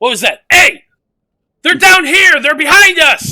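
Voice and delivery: shrill, very high, very loud alarmed shout. A guard in a cloak and plate armor hears a creak and turns, alarmed shout. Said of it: "He gets to yell out".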